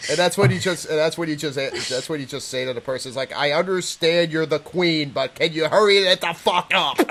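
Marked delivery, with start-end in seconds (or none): 3.3-7.0 deliberate start building to an exasperated finish; mock impatience. Agent hurrying a rambling caller, mock impatience. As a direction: begin slowly, then push the ending.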